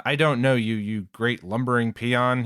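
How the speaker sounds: lightly voiced haughty noble; a hint of arrogant aristocrat sneer; celestial dragon voice. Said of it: "his best, uh, celestial dragon voice here".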